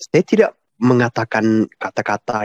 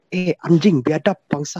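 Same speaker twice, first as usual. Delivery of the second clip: mild mock swearing, starting higher; imitated rough cursing; 6 semitones higher than usual. Questioner quotes Pak Paul talking rough, mild imitated cursing. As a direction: imitate someone cursing, without real anger. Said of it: "ngomong kasar kan".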